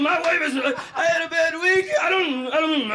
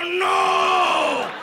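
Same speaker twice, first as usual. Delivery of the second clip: firm refusal; 4 semitones higher than usual. Retold or imitated. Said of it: "I go".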